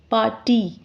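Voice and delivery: "Party" in two distinct beats, par, ty; split into syllables. Shown as a demonstration. Teacher recapping the syllable count, "Party" split par-ty. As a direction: separate "Party" briefly after "Par". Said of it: "this word has two syllables".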